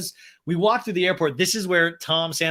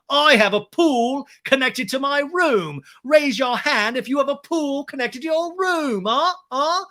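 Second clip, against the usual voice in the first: high, loud, slow mock bragging; James impression; 9 semitones higher, 4 dB louder than usual. Guest boasting to the group about his pool, hammed-up. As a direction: crow it, stretching the key words. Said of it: "And James is like".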